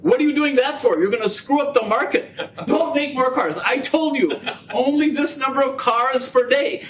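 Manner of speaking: half-joking rebuke; scolding boss. Retold or imitated. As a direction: ham up an annoyed executive telling off his manager.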